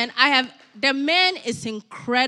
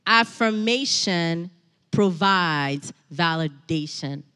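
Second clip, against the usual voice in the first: slow, spaced-out key point; emphatic repetition; 5 semitones lower, slower than usual. Real, not acted. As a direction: stretch AFFIRMATION, pause, then PROVIDES VALIDATION slowly and lower. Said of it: "Let me say that again".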